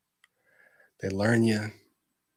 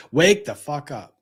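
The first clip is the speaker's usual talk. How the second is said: blunt snap; 4 dB louder than usual. Real, not acted. Snaps out of ad parody.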